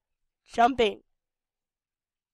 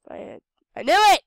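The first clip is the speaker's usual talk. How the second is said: exclaimed; 7 semitones higher, 11 dB louder than usual. Real, not acted. Creature rejects her.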